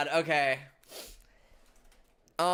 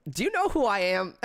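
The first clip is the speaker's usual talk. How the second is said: high pitched; 5 semitones higher than usual. Acted. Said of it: "do it high pitch".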